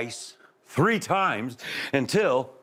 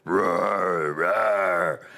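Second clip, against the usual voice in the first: bear roars; 4 semitones lower than usual. A narrator's reading. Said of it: "he hears the roars".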